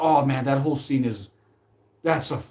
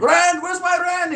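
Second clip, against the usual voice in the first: much higher, louder, slow nagging landlord voice; landlord demanding rent; 7 dB louder, slower than usual. Retold or imitated. Landlord hounding his tenant for rent, high and slow. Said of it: "Anytime he's like".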